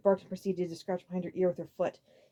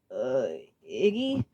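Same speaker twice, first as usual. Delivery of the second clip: low, slow, hesitant; timid frightened question; 6 semitones lower, much slower than usual. A narrator's reading. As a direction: nervously try to interrupt.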